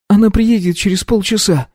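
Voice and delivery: tearful mother. A narrator's reading. Mother tells son of the crash news, weeping. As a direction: sob out the news to your son.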